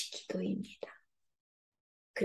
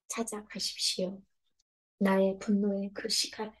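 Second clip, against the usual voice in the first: normal talking voice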